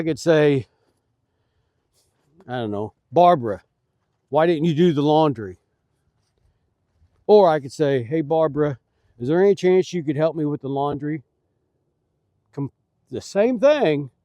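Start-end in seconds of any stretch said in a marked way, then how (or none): 3.1-5.6 mildly accusing, the name hit louder; blunt demand. Shown as a demonstration. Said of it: "it's how you say it". 8.0-11.2 quicker, casual, polite ask; polite request. Shown as a demonstration. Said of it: "the way you say it is completely different".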